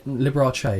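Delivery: the name ending in "chay"; corrected pronunciation. Shown as a demonstration. Correcting the co-host, the name with a "chay" ending. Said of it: "get it right".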